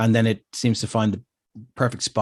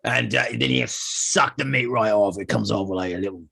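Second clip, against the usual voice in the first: dim pompous cartoon cop. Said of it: "this guy's like".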